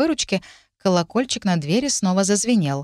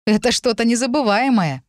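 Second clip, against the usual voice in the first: raised, heartfelt enthusiasm; earnest young man's wonder; sincere amazement; 6 semitones higher, 4 dB louder than usual. A narrator's reading. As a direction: praise it with honest delight. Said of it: "искренне сказал он".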